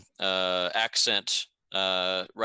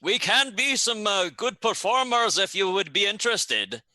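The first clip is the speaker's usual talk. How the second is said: put-on higher, fawning Garundi accent; a clumsy Garundi accent pitched up; poor Garundi accent; 7 semitones higher than usual. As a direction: keep up the bad Garundi accent, eager to please. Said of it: "In a poor Garundi accent".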